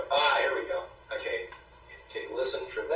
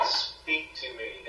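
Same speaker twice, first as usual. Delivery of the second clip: lightly imitated slow séance call; slow, even beckoning; Peter's slow summons; 3 dB quieter, slower than usual. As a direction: draw the words out to beckon a spirit. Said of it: "it sounds like Peter going".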